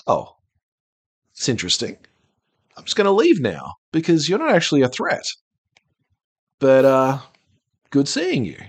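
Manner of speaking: the dragon brushing the heroes off in a mock Sean Connery accent. Game master voicing the dragon leaving the players, light Sean Connery accent. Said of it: "same accent as the dragon".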